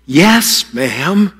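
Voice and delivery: bright, respectful "Yes, ma'am"; good attitude. Shown as a demonstration. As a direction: say "Yes, ma'am" sincerely, rising on "ma'am". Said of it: "with a good attitude".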